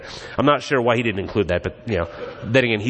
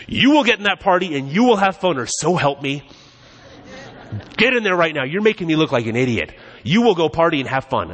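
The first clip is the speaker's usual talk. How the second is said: mock angry father; 4 semitones higher than usual. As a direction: bark orders like a fed-up parent, half in jest. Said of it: "He doesn't walk up to him and says".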